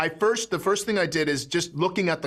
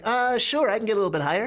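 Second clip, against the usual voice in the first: slightly raised voice; 7 semitones higher, faster than usual. Retold or imitated. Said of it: "it just kept going up and up".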